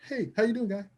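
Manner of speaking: lightly voiced friendly bouncer; super nice bouncer. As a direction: imitate a huge but gentle bouncer, lifting at the end. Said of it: "And they be super nice".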